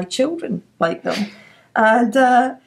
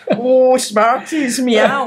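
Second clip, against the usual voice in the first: slow, higher mock cat voice; pretend cat; 4 semitones higher, 5 dB louder, much slower than usual. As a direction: play a cat cooing over sweets. Voicing cats decorating treats.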